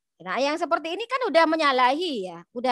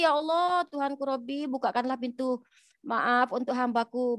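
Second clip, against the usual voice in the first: patient forgiving prayer; 4 dB quieter than usual. Retold or imitated. The Prophet, spat on, softly asks forgiveness for him. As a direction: pray quietly for the one who spat.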